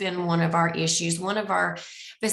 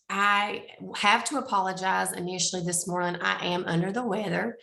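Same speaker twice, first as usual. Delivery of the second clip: raspy voice. Real, not acted. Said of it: "I'm also have a very raspy voice right now".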